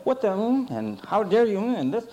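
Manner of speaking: imitating big kids. Boy recalls older kids' swearing, lightly mimicked. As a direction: echo the bigger guys' cussing. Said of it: "they would precede it with".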